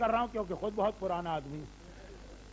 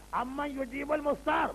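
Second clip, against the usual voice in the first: slow recitation; 3 semitones higher, slower than usual. Acted. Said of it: "Quranic verse recited".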